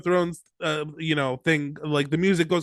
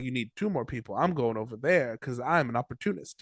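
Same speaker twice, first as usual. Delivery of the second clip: smug opportunist; 5 semitones lower, 6 dB quieter than usual. Retold or imitated. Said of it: "Stefan's like".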